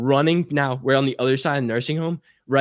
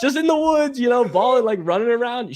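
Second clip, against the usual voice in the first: high, loud fake-innocent voice; 13 semitones higher, 5 dB louder than usual. Son lying to mom about the woods, high innocent voice. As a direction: play dumb, squeaky and sweet.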